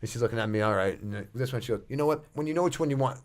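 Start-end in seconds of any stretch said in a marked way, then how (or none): 1.9-3.2 higher-pitched snippy clerk; real snappy. Retold or imitated. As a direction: imitate an impatient shop clerk. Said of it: "real snappy".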